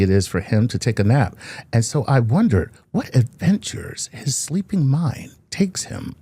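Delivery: a hint of a creepy slasher; Freddy Krueger voice. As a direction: read it like a lurking horror villain. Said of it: "he sound like Freddy Krueger".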